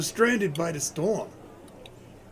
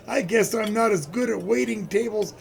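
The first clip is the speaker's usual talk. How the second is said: Santa-like jolly voice; 2 semitones higher than usual. Acted. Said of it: "you sound just like Santa Claus".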